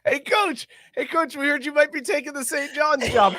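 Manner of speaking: high-pitched mock reporter; hammed-up high questioner; cartoon interviewer. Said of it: "Fucking Mario sounds for fucking Patino".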